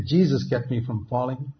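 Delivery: weight on "Jesus", the first word; stress on Jesus. Shown as a demonstration. Contrasting two testimonies for the congregation, stress on "Jesus". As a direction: lean on "Jesus" to give him the credit. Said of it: "the emphasis is on Jesus".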